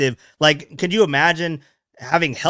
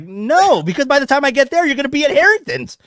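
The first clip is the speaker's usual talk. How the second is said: laughing retort; 11 semitones higher, 5 dB louder than usual. Retold or imitated. Retold reply, laughing.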